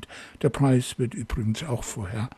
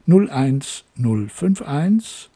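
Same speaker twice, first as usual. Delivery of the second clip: slowly spaced-out digits; slow dictation; 4 dB louder, slower than usual. Real, not acted. Host repeats the cheap prefix for callers, slow dictation. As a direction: read it out for someone writing it down. Repeats phone number for listeners.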